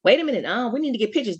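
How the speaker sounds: imitating her own alarmed self; mock alarmed. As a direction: play the startled onlooker, high. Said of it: "I was definitely like".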